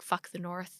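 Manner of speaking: acted-out whisper. Recapping a scene where a character stands in the street: retelling a whisper. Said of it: "he just whispers, like".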